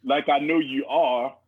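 low, mock-earnest pep talk; rallying speech. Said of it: "this rallying speech".

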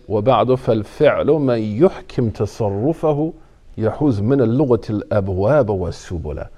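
rapid chanted recitation of Arabic verse; تلاوة سريعة لبيت من الشعر. Acted. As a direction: rattle off the poem from memory, fast. Recites a verse of Ibn Malik.

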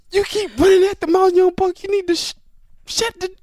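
loud, high mock tirade; imitated going off. Veteran telling off young teammate, high and loud. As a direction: act out a teammate going off on you. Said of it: "he was just going off".

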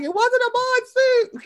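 high, slow indignant imitation; mock Cynthia protest. Host mimicking Cynthia's defensive reply, high and slow. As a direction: protest it like an offended diva. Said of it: "She's like".

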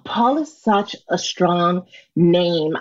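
slow, breathy flirt; sultry phone operator voice. Pretend. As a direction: flatter him slowly like a phone operator. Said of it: "Can you do a little for us".

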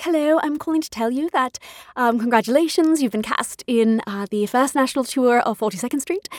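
lightly imitated British casting director; soft-spoken mock British phone voice; British accent. Casting director calls with news of the role, British accent. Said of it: "She was British, had the loveliest accent".

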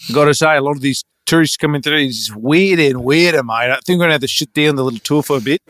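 put-on easygoing Australian accent; Australian bloke voice; Australian tour guide. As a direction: play an Aussie guide grumbling.

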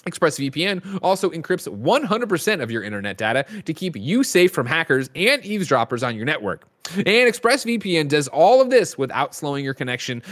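podcast host's sponsor read; smooth scripted endorsement, key benefits lightly punched. Real, not acted. Host pitching a sponsor to podcast listeners, ad read.

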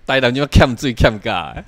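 Taiwanese phrasing. Shown as a demonstration. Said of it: "我跟你讲，".

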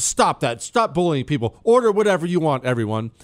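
mildly exasperated imitation of a wife telling him off; imitated mad scolding. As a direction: retell her scolding, with a touch of anger. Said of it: "she gets really mad".

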